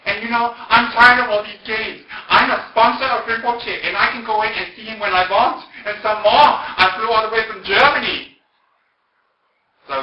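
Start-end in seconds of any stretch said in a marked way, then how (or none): 0.0-8.4 high, loud, indignant German woman; slow, imperious German-accented complaint, acted out; slight German accent. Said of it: "with a slight German accent".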